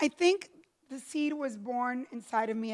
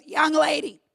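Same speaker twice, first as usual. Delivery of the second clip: a hint of a gruff old boss, slow at the end; 3 semitones higher, 4 dB louder, slower than usual. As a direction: lecture her like a dismissive old man. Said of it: "he goes".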